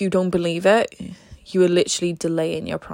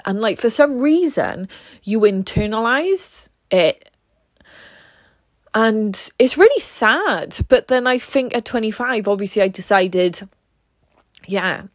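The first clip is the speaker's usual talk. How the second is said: crying voice. Real, not acted. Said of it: "Sorry, I'm crying, so you can probably hear my voice".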